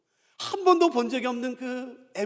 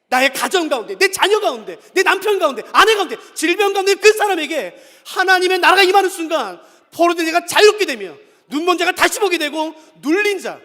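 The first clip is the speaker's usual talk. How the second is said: loud, high-pitched sermon delivery; impassioned preacher driving the point home; forceful preaching; 6 semitones higher, 10 dB louder than usual. Real, not acted. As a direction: proclaim it to the whole congregation.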